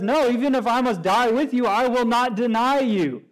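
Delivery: firm loyal protest; emphatic vow. Retold or imitated. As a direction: pledge it with stubborn certainty. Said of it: "So he's very emphatic there".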